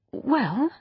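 put-on kind girl, lifted pitch; patient, kindly opening. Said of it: "still kindly".

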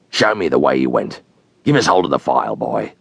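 a hunted man on the marsh, wary and low; convict's voice. Acted. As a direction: sink low and drag it out like a starving fugitive.

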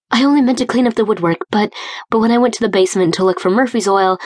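quick, tumbling nervous explanation; rushing out an anxious excuse. Acted. Ainsley hurries to explain the painting to Eric, nervous rush.

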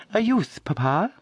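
put-on high, eager girlish voice; eager daughter asking papa; young daughter's question. A narrator's reading. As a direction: ask it like an excited young sister. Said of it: "asked Charity".

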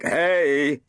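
sharp, indignant "Hey"; angry. Acted. Storyteller cut off by a bystander, angry protest. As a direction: snap to stop the interruption. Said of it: "said the storyteller angrily".

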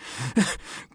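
short breathy cough; wounded cough. A narrator's reading. Wounded hunter lying on the ground, coughing. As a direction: cough in pain. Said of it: "The hunter coughed".

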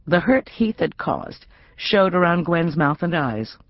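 usual speaking voice

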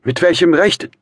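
high, loud, indignant challenge; wounded outburst; hurt cry. A narrator's reading. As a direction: challenge him, offended. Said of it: "rief das Mädchen gekränkt".

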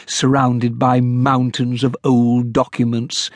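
plain reading voice

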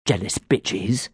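soft slow muttering; a sulky fairy's muttered insult. Acted. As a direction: grumble it under your breath. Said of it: "I heard him mutter".

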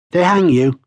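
high-pitched, lightly huffy retort. A narrator's reading. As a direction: huff it out like a sore loser. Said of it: "the man huffed".

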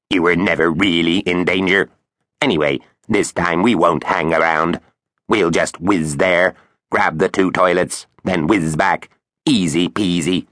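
lightly voiced breezy robot; brushing off danger as a machine; quacky robot voice. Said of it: "Its quacky robot voice".

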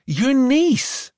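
put-on a touch of a sharp young girl; said sharply. A narrator's reading. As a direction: snap it out, lightly voiced girl. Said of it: "she said sharply".

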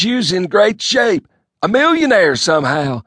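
a folksy hick rambling on. A narrator's reading. Elmo telling his cousin the news in a loud bumpkin voice.

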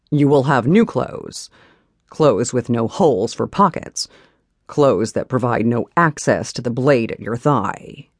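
a hint of a firm, commanding man; stern husband. Husband voiced in the story.

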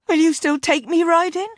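high, ghostly woman's voice; unearthly voice. Acted. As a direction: sound like a ghost from beyond. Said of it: "the ghost of Tay".

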